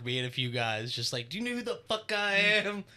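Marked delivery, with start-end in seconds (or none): 1.3-2.8 playful higher-pitched who-do-you-think-I-am act; mock self-importance. Joking with the guys at work, mock self-important. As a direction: pretend to pull rank, pitch raised. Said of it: "we do that at work".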